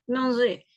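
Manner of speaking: manger, finale é fermée; manger modèle. Shown as a demonstration. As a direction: articuler manger pour les élèves. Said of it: "La prononciation, ça sera". (prononciation modèle de manger)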